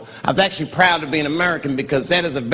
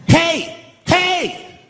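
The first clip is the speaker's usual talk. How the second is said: impression of a singer; 12 semitones higher, much slower than usual. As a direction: shout the catchphrase up high. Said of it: "Everybody at the park".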